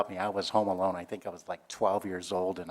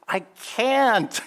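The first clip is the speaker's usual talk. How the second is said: strained reply; 12 semitones higher, 6 dB louder than usual. Retold or imitated. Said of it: "He goes".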